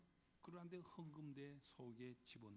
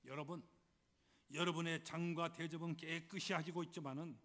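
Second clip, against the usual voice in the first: preaching Jesus; 3 semitones higher, 7 dB louder than usual. Acted. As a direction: voice Jesus admonishing the crowd, deliberately paced. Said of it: "우리 주님 이렇게 이어서 말씀을 하십니다".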